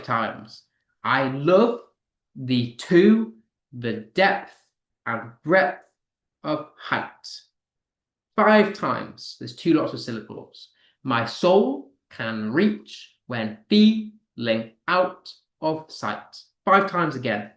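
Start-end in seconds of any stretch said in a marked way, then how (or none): 1.0-7.1 foot by foot, second word of "I love", "the two" punched; unstressed then stressed. Shown as a demonstration. Teacher counting five iambs for students, stressed pair by pair. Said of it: "unstressed followed by stressed syllables". 11.0-16.4 very slow, punching "SOUL", "REACH", "FEEL", "OUT", "SIGHT"; unstressed then stressed. Shown as a demonstration. Teacher counting five iambs in a sonnet line, stressed in pairs. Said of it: "unstressed followed by stressed syllables".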